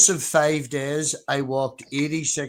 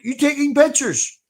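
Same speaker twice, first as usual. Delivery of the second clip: much higher mock voice; lightly voiced suspicious stranger; imitating drunk local; 12 semitones higher, 5 dB louder than usual. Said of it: "he's like".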